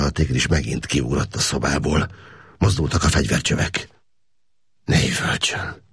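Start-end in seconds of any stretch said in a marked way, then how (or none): 4.8-5.8 hushed, breathless warning; whisper. A narrator's reading. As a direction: whisper it so the guards stay calm. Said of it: "suttogta Káptalan".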